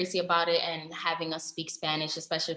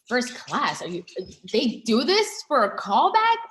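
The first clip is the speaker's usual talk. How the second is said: surprised; 6 semitones higher, 7 dB louder than usual. Retold or imitated. Retold disbelief at first class.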